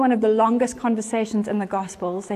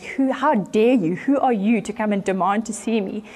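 mock annoyed. Nero to the woman demanding to see him, mock annoyed. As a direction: play a touch of affronted annoyance. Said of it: "he is so annoyed".

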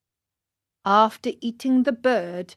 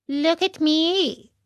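high, drawn-out cat; cat's voice; 8 semitones higher, slower than usual. A narrator's reading. Cat echoing the fox's warning, high and drawn out. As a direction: echo the fox in a higher put-on voice. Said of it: "said the cat".

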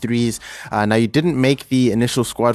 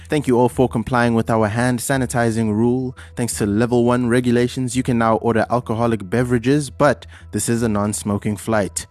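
pilot announcement. Acted. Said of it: "this is your Captain Slu Paho speaking".

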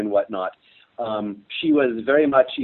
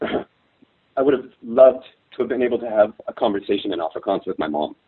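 choked up; 2 semitones lower than usual. Real, not acted. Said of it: "I'm getting choked up".

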